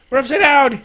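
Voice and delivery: high, giggly cry; laughing exclamation. Real, not acted. Player flipping phone for a wormhole, laughing. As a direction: call it out through laughter.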